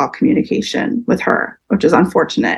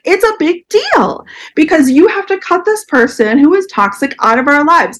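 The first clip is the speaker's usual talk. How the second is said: urgent plea; 8 semitones higher than usual. Retold or imitated. Arguing with parents, retold.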